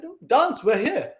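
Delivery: high, urgent retold command; father pushing a child to perform, imitated; insistent father. Father insists scared child dances.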